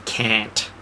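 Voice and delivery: "can't" with a flat American short a, as in "cant". Shown as a demonstration. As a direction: say "can't" rhyming with "ant". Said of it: "Americans don't get that we don't say".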